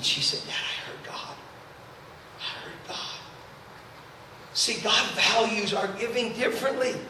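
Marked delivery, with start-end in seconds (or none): 0.5-3.2 barely voiced, reverent whisper; awed whisper. Daughter tells her dad she heard God, awed whisper. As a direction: whisper it, pausing before the repeat.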